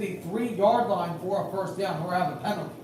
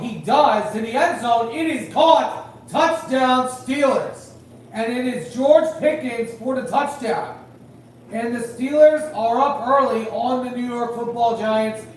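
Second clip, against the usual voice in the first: excited touchdown call; 3 semitones higher, 5 dB louder than usual. Real, not acted.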